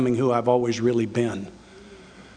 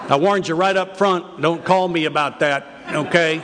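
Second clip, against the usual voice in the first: louder and higher, laughing along with the crowd; 5 semitones higher, 3 dB louder than usual. Real, not acted. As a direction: joke through the laughter, teasing. Audience laughs at joke.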